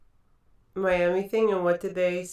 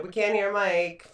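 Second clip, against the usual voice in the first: slow, stretched-out mock complaint; 3 semitones higher, 4 dB louder than usual. Host quoting listeners about the mike, slow mock complaint. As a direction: lightly imitate a complaining listener.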